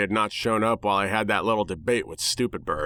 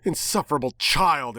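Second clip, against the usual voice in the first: snapped insult, a bit higher; angry snap; 4 semitones higher than usual. Acted. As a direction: snap it back at the kid. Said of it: "it snapped back angrily".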